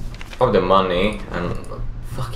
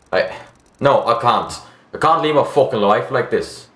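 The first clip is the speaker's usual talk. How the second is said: despairing Australian character voice; Australian accent. Acted. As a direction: refuse as a hopeless Australian widower. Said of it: "trying to do a fucking Australian accent".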